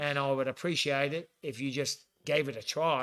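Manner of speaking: put-on Aussie accent; mock-earnest Australian impression. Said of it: "segue out of that impression".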